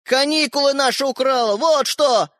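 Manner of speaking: high, indignant call; shouted accusation. A narrator's reading. Brother in corridor to sister, shouting. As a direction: yell it through the door. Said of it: "прокричал ей Родька из коридора".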